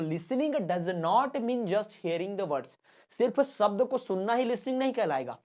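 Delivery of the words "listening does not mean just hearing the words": slow, word-by-word reading; slow classroom dictation; dictation pace. Shown as a demonstration. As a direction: dictate it slowly for notes. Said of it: "dictation of definition".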